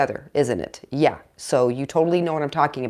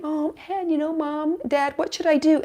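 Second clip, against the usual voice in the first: put-on pleading teen; 9 semitones higher, 3 dB quieter than usual. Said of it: "if they do ask you".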